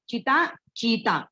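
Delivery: चिता with a quick short ची, then चीता with a long drawn-out ची; slow, clear contrast of चिता and चीता. Shown as a demonstration. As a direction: say चिता fast and stretch the ची in चीता. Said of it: "चिता बोलते समय मैंने ची जल्दी बोल दिया है और चीता तो ची को थोड़ा लंबा लिया है".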